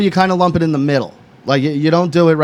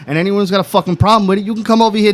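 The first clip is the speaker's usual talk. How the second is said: defiant rant; 4 semitones higher than usual. Acted. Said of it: "as loud as I wanna say it".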